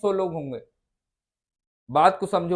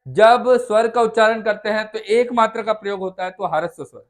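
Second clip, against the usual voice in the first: recited answer; 5 dB louder than usual. Real, not acted. Student answers aloud standing.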